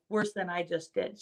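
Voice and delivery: ordinary talk, nothing marked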